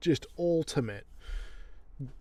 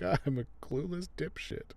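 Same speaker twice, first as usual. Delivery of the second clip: higher, softer goofy imitation; mock clueless man; 5 semitones higher, 6 dB quieter than usual. Alan after she gets pissed off, mock clueless. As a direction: send him up as blissfully dim. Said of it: "and he's like".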